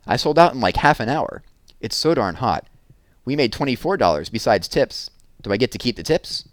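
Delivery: put-on a kid proud of selling out fast; excited Sally.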